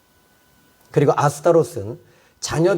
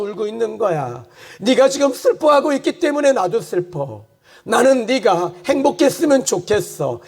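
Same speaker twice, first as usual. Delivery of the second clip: God the Father, grieving, a touch higher and gentle over music; God speaking tenderly; 6 semitones higher than usual. Acted. Preacher voicing God's grief to the congregation, gently. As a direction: let a sorrowing father's heart come through, half sung.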